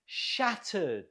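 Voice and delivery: SHAT stressed in Shattered, second syllable falling away; stress on first syllable. Shown as a demonstration. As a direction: model Shattered with the weight up front. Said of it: "stress on the first syllable".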